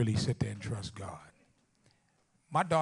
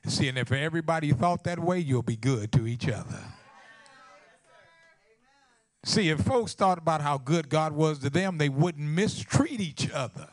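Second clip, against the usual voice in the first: preach; 3 semitones higher, 8 dB louder than usual. Real, not acted. Preacher warning the congregation against holding grudges, loud preaching. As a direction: drive it home to the congregation in a raised voice.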